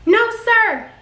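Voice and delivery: high startled reply; panicked slip. Retold or imitated. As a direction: blurt it out in a panic. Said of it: "I was like".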